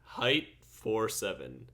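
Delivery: slow, measured stat readout; announcer voice. Acted. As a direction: read the stats like an announcer. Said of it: "announcer voice".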